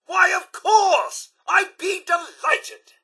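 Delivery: high, drawn-out gushing assent; slow, lilting eager yes; delighted agreement. Acted. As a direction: agree with effusive, theatrical delight. Robot eagerly agrees to request.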